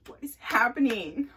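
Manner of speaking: puzzled rising question; what is happening asked in mild confusion; confused. Retold or imitated. Butt touched again, confused.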